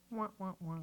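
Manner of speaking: soft, deflated "wah, wah, wah"; sad trombone. Pretend. Host shrugging off a failed transition, sad trombone. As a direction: play a quiet mock-failure horn.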